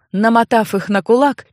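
ordinary delivery, nothing marked

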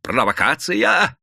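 strained, drawn-out high cry; надсаживаясь. A narrator's reading. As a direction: strain to be heard over a crowd. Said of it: "надсаживался рабочий". (надсадный крик)

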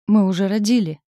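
loud, eager announcement; wife wakes her husband, loud and excited. A narrator's reading. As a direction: burst out with the happy news.

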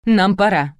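a touch of nerves, hurrying others; nervous. A narrator's reading. Bride afraid of being late, nervous. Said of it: "занервничала тётя Галя".

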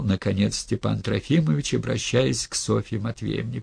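ordinary delivery

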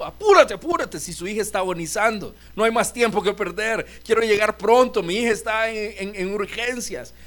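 desperate father urging Jesus on; urgent pleading. Retold or imitated. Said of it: "tratando de jalar a Jesús".

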